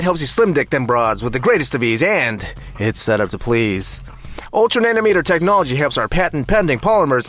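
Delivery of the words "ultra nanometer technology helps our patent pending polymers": hammed-up commercial voice; mock ad read. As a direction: sell it like a fake sponsor spot.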